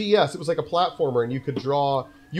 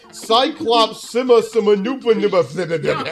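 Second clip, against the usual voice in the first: rambling imitation; 4 semitones higher, 5 dB louder than usual. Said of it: "'cause you were like".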